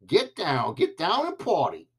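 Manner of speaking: imitating the singer. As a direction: mimic a singer calling out to the crowd. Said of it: "when the singer goes".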